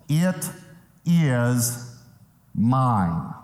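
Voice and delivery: "it is mine" word by word, long pauses; slow, emphatic "it ... is ... mine". Shown as a demonstration. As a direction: spell out each word of "it is mine" with weight. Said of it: "how emphatic the language is".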